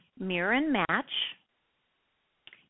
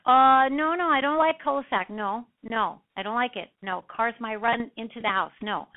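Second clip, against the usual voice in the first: hearty, emphatic no from a client in broken English; 2 semitones higher than usual. Retold or imitated. Home buyer refusing a cul-de-sac, emphatic and broken English. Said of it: "very broken English".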